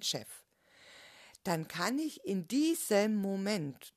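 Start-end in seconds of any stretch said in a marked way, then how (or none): 2.2-4.0 "diesem Moment" leaned on a little louder; stress on diesem Moment. Shown as a demonstration. Coach to listener, stressing "diesem Moment" slightly louder. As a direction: press gently on "in diesem Moment". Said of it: "die Betonung liegt auf diesem Moment".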